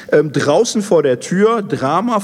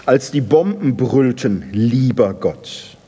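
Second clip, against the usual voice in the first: bitter reproach. Acted. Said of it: "Es wird ihm vorgehalten".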